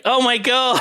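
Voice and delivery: hammed-up gasp of wonder; mock amazement. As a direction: feign a big astonished reaction. Mock group reaction to the reveal.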